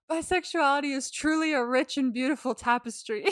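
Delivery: grandly tipsy, on the edge of laughing; mock drunken declaration. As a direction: play tipsy while fighting back laughter. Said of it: "Alex turns to Nora and drunkenly says".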